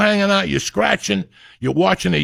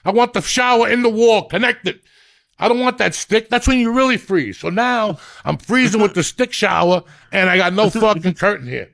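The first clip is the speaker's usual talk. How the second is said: worked-up rant; 4 semitones higher than usual. Real, not acted. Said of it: "I got emotional about hotels".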